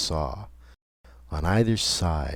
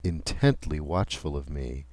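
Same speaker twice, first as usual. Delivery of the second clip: ordinary delivery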